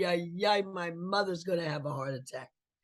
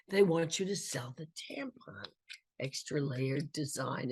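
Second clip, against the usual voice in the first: whispered; 6 dB quieter than usual. Retold or imitated. Agent's words retold.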